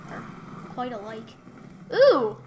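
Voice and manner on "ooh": high, loud giggly joy; real laughing excitement; laughing delight. Real, not acted. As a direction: squeal with glee at the map. Delighted by new map.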